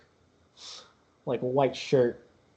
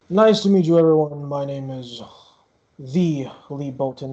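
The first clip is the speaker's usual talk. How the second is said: the show's vain star, bright and loud at first; star Lee Bolton; 5 dB louder than usual. Acted. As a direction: greet everyone like the main attraction. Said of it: "and he goes".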